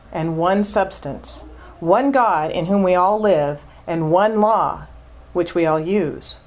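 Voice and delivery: solemn scripture reading; reading scripture aloud. Shown as a demonstration. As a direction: read it like sacred text, each "one" leaned on. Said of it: "So this is what he wrote".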